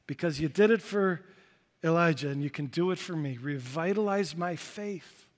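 soft, pleading prayer; earnest prayer. Retold or imitated. Weary believer asking God for glory, quiet prayer. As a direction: pray it quietly from a worn-out heart. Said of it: "cry out".

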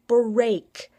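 "break" said alone, loud and emphatic; stress on break. Real, not acted. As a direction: set "break" apart and hit it hard. Repeats the word for emphasis.

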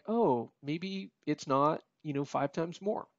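slow, deflated reconsidering; sobered realization after checking the stats; doubtful second thought. Retold or imitated. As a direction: let the hope drain out, slowly. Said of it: "you look at the stats and you're like".

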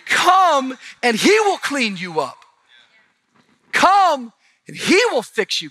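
high, loud preaching call; calling the crowd to come, preached hard; preaching at full force. Acted. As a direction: lift the room with the call.

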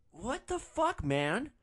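high-pitched mock indignation; mad drunk passenger. Drunk passenger woken in the driveway, high mock outrage. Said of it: "like he's mad at me".

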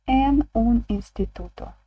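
En un instituto said slowly, En stressed; careful teacher read of En un instituto; slow model phrase. Shown as a demonstration. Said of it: "Як ми скажемо".

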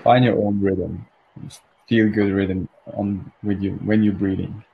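calm, unhurried meditation guidance; guided meditation. Real, not acted. Meditation leader helping listeners find their rhythm, calmly. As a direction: ease listeners gently into their breathing.

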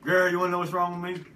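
lightly put-on Southern accent; mild Southern twang; Southern guy. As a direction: play a sassy Southern patient. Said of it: "I'm gonna be a Southern guy".

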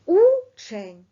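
Учень loud as у-чень, two clear vowel beats; syllables called out. Shown as a demonstration. Teacher shows two syllables, called out loud. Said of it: "Два голосних звуки і два склади".

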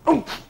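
short, loud, high grunt of impact; imitated shoulder hitting a door; effortful oomph. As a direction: heave out a sudden oomph. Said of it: "it was like an oomph noise".

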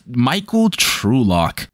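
slow, drawn-out hint of a Texas drawl; mock Texan name. Shown as a demonstration. Mocking the gunman's name as very Texas, slow drawl. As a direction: savor the name like a good ol' Texan, slowly. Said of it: "this does sound like a Texas".

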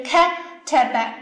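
grab 开 sharply, then let te be follow; 开 stressed as if suddenly catching hold of it. Shown as a demonstration. Teacher demonstrates the accent to students, 开 seized with stress. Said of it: "这开一下子就像抓住了一样".

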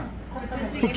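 short, soft laugh. Real, not acted. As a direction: laugh quietly to yourself. Laughing at the sulky Casper. (हल्की सी हँसी)

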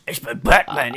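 gravelly whispered Batman growl. Pretend. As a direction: rasp it like the Dark Knight. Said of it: "so spreche ich".

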